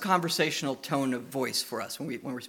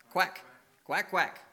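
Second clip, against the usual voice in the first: duck quack; 3 semitones higher, slower than usual. Shown as a demonstration. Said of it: "what do our ducks say".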